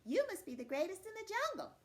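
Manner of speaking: high, admiring cat voice; flattering cat. Acted. Cat buttering up Man, high and admiring.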